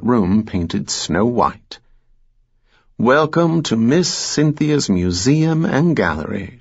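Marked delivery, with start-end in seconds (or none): 3.0-6.6 proud Southern welcome, lifted high; Georgia accent. Acted. Hostess proudly welcomes them.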